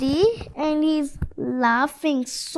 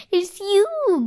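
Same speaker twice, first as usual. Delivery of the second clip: giggled; 8 semitones higher than usual. A narrator's reading. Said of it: "giggled Eddie".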